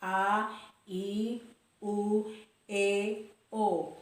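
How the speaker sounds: A, I, U, E, O with round lips; rounded vowels. Shown as a demonstration. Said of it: "Jadi bentuk bibirnya bulat".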